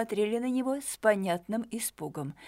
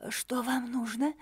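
higher, slowed, mildly frightened question; a touch of fright, drawn out and raised; frightened exhale; 4 semitones higher than usual. A narrator's reading. Startled woman questions the stranger who addressed her, mildly frightened. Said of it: "испуганно выдохнула женщина".

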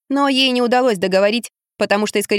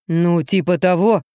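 slow, lower grumble; grumbling; 3 semitones lower, slower than usual. A narrator's reading. Гриша бурчит жене, медленно и низко. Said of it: "забурчал Гриша".

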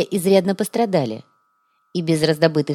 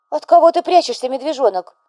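worried mother; 9 semitones higher, 5 dB louder than usual. A narrator's reading. Worried mother questions son.

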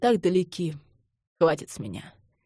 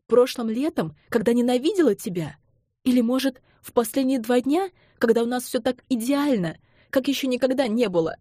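raised, higher pleading through tears; trembling voice; 6 semitones higher than usual. A narrator's reading. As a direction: voice rising and shaking as she accuses him. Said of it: "Её голос дрожал".

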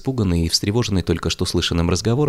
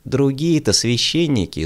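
hissing voice; 8 semitones higher, slower than usual. A narrator's reading. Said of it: "неприятным шипящим голосом".

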